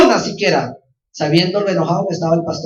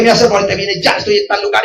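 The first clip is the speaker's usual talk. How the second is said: angry father; 3 semitones higher, 4 dB louder than usual. Retold or imitated. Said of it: "y así enojado".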